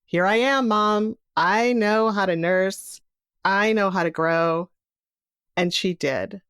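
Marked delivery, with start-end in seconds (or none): 0.0-4.7 eager newborn greeting Mom, pitched up at first; a playfully voiced baby announcing herself. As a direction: speak up lightly as a confident newborn.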